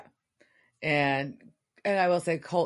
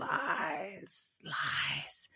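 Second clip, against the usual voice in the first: hissed-out whisper of lies; soft unvoiced lies, lies; 2 semitones higher, 10 dB quieter than usual. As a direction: whisper it like a secret accusation. Reacting to Cass lying.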